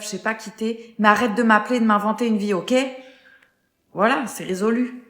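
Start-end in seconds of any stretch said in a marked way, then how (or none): 1.0-2.7 angry. Acted. Man yells at caller on phone.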